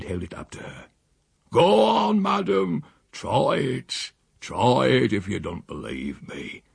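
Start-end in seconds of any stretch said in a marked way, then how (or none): 1.5-6.6 higher, slow mock-innocent old countryman; Silas. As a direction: coax her, sly and unhurried. Silas offers the bottle.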